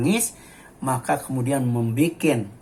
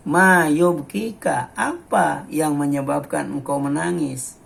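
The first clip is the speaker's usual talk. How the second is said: companions' gentle question; slower than usual. Acted. Sahabat asking Ummu Aiman. (bertanya pelan dengan nada tinggi)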